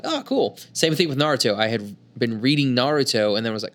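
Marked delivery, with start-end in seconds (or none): 0.0-0.6 mock excited. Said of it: "I'm like".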